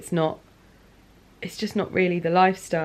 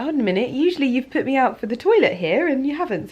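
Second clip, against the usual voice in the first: quick, raised put-on dog voice, lightly played; dog's voice; 6 semitones higher, 4 dB louder, faster than usual. Dog reminding his owner about the toilet, quick and lightly voiced. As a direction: rattle it off as the puzzled dog. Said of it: "so he was like".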